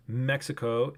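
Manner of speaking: Mexico said slowly as "meh-kee-shee-ko"; Japanese pronunciation. Shown as a demonstration. Streamer explaining Japanese country names, Mexico as "me-ki-shi-ko". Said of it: "they'll have an English pronunciation".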